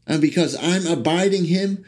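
rising, fervent sermon voice; building preaching. Acted. Preacher declaring his faith to the congregation, fervent build.

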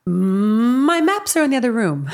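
placed up in the facial mask, slow; vocal therapy sentence. Shown as a demonstration. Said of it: "my sentence that's supposed to get me into my correct vocal usage".

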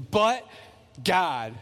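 loud. Retold or imitated. Echoing Lon's reading, loud "But God". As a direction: punch "But" hard. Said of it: "It was loud".

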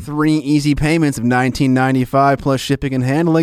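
infomercial pitch voice; hammed-up TV shopping ad; home shopping host.

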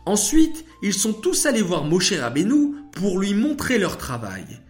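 récit de fillette, haut perché et animé; très enthousiaste. Acted. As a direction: raconter avec l'entrain d'une enfant qui connaît sa leçon. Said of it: "déclara Shaina très enthousiaste". (voix d'enfant enthousiaste)

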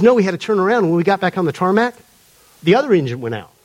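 lightly imitated Atlanta man; attempted Atlanta accent. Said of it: "he's telling the story in his accent".

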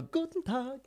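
high, softly put-on Dutch accent. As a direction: greet in a light, high Dutch-tinged German. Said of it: "you said it in a Dutch accent".

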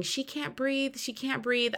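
high, soft imitation of a frantic mom; retold panicked plea.

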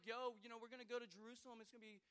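a lightly voiced breezy Paul; casual mock Paul. Pastor mocking a casual Paul, a touch offhand. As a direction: toss it off, careless. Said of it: "it's not like he's like".

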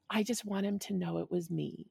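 quiet vengeance, savoring it; Game of Thrones menace. Retold or imitated. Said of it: "full Game of Thrones".

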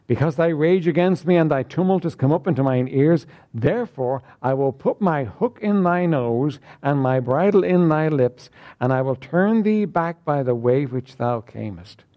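measured King James reading; solemn scripture reading to the congregation. Acted. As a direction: read the verses out with weight. Reads scripture aloud.

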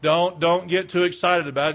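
acting an unbothered churchgoer; low-key brush-off to the preacher; indifferent. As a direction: talk him down as if nothing matters. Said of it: "They were indifferent".

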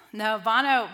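"Bono" said loudly, pushing for the right name; firm, loud "No, Bono"; emphatic correction. Shown as a demonstration. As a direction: insist on "Bono" with a loud fall. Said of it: "Bono, anyone?".

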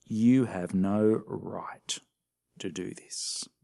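whispered, slow accusation; accusing whisper. Retold or imitated. The leaders accusing Jesus in a whisper. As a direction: hiss it as a charge. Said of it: "not so much a question as an accusation".

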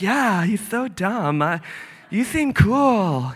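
slow, drawn-out mock agreement; easily swayed woman. Woman agreeing with the serpent, mock gullible drawl. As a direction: drawl along as if taken in. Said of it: "And she's like".

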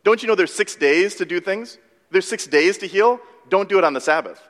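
mildly acted indignation, pitch rising; indignant. Synagogue rulers rebuking Jesus for Sabbath healing, indignant. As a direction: scold like an affronted rule-keeper. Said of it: "they would be indignant".

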